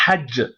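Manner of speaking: hajj said with a stop on the final j; pausal form hajj. Shown as a demonstration. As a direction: cut hajj off at the last letter. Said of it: "c'est mieux de dire".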